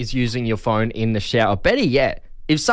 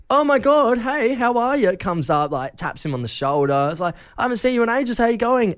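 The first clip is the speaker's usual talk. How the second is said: excited greeting; 7 semitones higher than usual. Retold or imitated. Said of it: "and goes".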